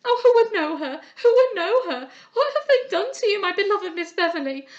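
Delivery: high, loud wailing that keeps climbing; girl lamenting at a bedside, near tears; grieving lament. A narrator's reading. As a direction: pour out grief over her ruined friend. Lament over disfigured friend.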